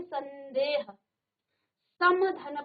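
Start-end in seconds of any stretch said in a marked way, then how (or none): 0.0-0.8 संदेह with a held n before दे; teacher sounding out संदेह; pronunciation demonstration. Shown as a demonstration. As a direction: linger on the n in संदेह. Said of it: "तो इसको पढ़ेंगे".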